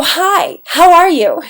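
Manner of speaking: high, bouncy, happy how-are-you; happy greeting. Shown as a demonstration. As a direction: greet them like you're delighted. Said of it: "say somebody's happy and they go".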